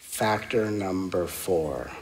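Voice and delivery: deliberate, unhurried, slow and low. Listing factors in a talk, saying the next one slowly while trying to remember it. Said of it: "I say it slowly".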